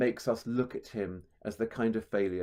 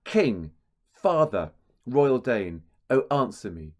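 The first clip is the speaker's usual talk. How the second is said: "King", "father", "royal" each hit hard on the first syllable; stressed front syllables; 4 dB louder than usual. Shown as a demonstration. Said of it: "hear those stresses again and again".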